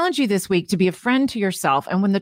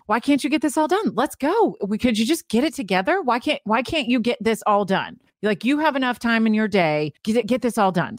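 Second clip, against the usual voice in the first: impatient self-scolding, pushing; negative inner voice; 2 semitones higher than usual. Acted. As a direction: nag yourself to hurry up and finish. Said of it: "negative tone of voice".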